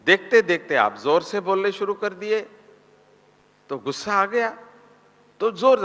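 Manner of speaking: high, fast, baffled asking why they shout; mock-scold someone for yelling, quick and high; high, quick exasperated question to a shouting person; exasperated questioner. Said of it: "किसी ने पूछा था".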